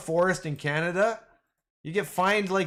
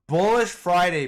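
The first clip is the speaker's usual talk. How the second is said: hyped call; 7 dB louder than usual. Real, not acted. Hyping the market.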